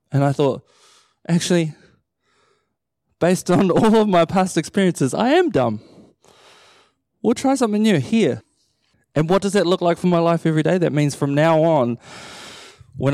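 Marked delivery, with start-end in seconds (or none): 1.3-8.4 a touch higher, laughing at himself; mildly amused self-mockery; sheepish agreement. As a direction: admit it with a chuckle. His inner reply to God.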